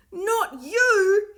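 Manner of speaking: loud, high command; cried out. A narrator's reading. Will shouts at one child to stay, loud and high. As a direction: stop him with a shout. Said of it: "he cried".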